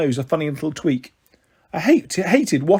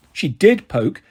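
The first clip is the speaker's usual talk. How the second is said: a hint of a whiny child, rising higher at the end; lightly whiny girl; 6 semitones higher, 3 dB louder than usual. A narrator's reading. Lucy whines to the adults, lightly whiny. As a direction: whine it like a hurt little girl. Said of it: "said Lucy in a whiny voice".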